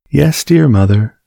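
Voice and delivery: lightly voiced eager child; little girl voice. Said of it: "said the little girl".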